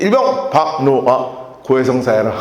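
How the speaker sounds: stern priest on phone. Retold or imitated. Retold priest's phone order.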